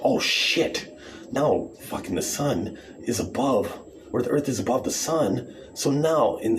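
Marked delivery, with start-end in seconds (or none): 0.0-0.9 much higher breathy squeak, a touch louder; mock panic squeak. Flat-earther panicking in a high squeaky yelp. Mock quote sunshine person.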